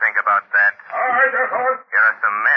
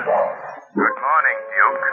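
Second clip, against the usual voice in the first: eerie Shadow greeting; 4 semitones higher, much slower than usual. Acted. Unseen Shadow greets Duke eerily.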